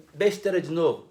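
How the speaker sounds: ordinary talk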